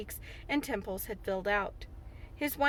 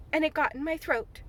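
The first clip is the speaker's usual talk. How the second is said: higher, prim and reproachful; reproachful dignity; 5 semitones higher than usual. Acted. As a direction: finish the excuse with injured dignity. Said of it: "with reproachful dignity".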